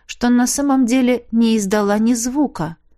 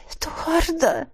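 alarmed cry; 7 semitones higher, 4 dB quieter, slower than usual. Acted. Heroine coughing up water.

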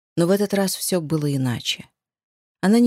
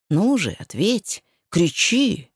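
1 growled, growing louder; 2 semitones higher, slower than usual. A narrator's reading. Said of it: "прорычал он с каждым словом, усиливая громкость".

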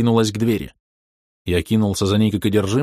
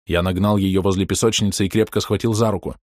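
usual speaking voice

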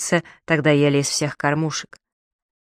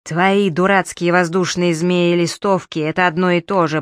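mild mock yell. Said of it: "проорал господин мэр".

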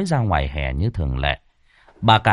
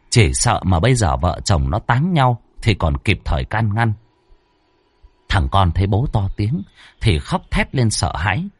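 ordinary delivery

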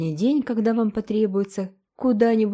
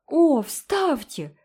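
slow, high eager plea; 8 semitones higher, 4 dB louder, much slower than usual. A narrator's reading. Girl begging Anne, high and drawn out. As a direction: beg eagerly to be in the story. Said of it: "воскликнула Джеральдина".

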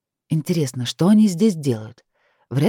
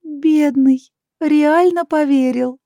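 much higher and louder, slow gleeful mockery; Lilith laughing; 11 semitones higher, 6 dB louder, much slower than usual. Lilith mocking Kai, high gleeful laugh. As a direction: cackle it out high as a spirit. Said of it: "расхохоталась Лилит".

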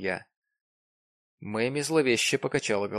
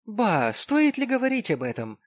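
scornful exclamation; 10 semitones higher, 4 dB louder than usual. A narrator's reading. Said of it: "воскликнула Мэми".

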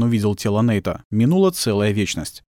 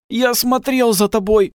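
high, slow rasping gasp; hoarse wheeze; 12 semitones higher, 3 dB louder, slower than usual. A narrator's reading. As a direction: wheeze it out wounded. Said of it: "прохрипел мужчина".

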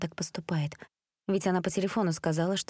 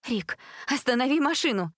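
stern order; 7 semitones higher than usual. Acted. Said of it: "строго произнесла та".

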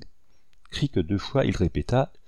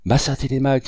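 higher, louder startled cry of his name; exclaiming; 5 semitones higher, 4 dB louder than usual. Acted. Two servants startled by their master's arrival, exclaiming. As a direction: call out his name in surprise. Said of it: "s'écrièrent les deux Noirs".

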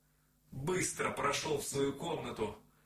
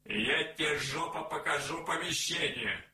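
angry yelling; 4 semitones higher, 5 dB louder than usual. A narrator's reading. Neighbour yells back angrily.

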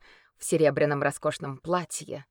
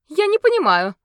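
high, loud, ringing lady's voice; ringing melodic voice; 13 semitones higher, 10 dB louder than usual. Acted. The unmasked lady answering the crowd in a ringing voice. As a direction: sing it out sweetly and innocently. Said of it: "звонким мелодичным голосом".

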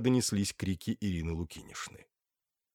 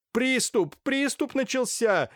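much higher, frantic alarmed call; alarmed cry; 4 dB louder, slower than usual. Acted. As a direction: cry out that the fit has begun.

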